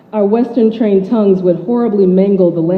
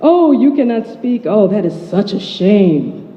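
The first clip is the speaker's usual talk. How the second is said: imitating Nigerian relatives; 2 semitones higher than usual. Relatives scolding her at Nigerian parties, mock Nigerian accent. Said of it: "by relatives in and outside of Nigeria".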